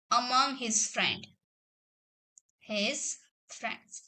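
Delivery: slow, word-by-word dictation with long pauses; a teacher dictating each word slowly. Shown as a demonstration. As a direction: read it out slowly so students can write it down. Teacher dictates example sentence.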